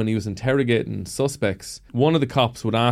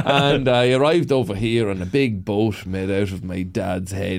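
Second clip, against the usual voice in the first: put-on slow, laid-on Cavan accent; unhurried, mock-naive Cavan accent; ramped-up Cavan accent; 4 semitones lower than usual. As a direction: tell a tall tale in broad Cavan. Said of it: "I used to ramp up the accent".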